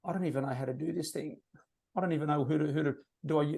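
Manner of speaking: soft, hesitant beginner voice; unsure beginner. Retold or imitated. New recruit doubting themselves, quietly unsure. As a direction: mumble it like you're lost. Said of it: "all the superstars started with".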